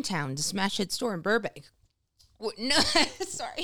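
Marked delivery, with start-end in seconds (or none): 2.4-3.6 choking on coffee; sputtering after a wrong swallow; coughing up water. Real, not acted. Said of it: "I took a drink of coffee, went down the wrong pipe".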